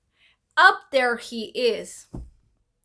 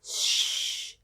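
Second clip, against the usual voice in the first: shush; 5 dB quieter than usual. Retold or imitated. He hushes her.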